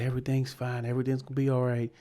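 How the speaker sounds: gently reassure, as an imitation; imitated comforting. Airport worker trying to comfort crying women, imitated reassurance. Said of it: "was trying to comfort them".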